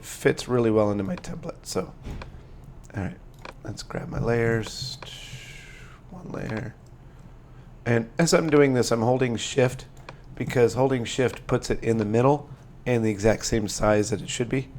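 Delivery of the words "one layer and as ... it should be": sore, strained throat while talking; speaking through swollen tonsils. Real, not acted. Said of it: "sorry for my voice and my throat".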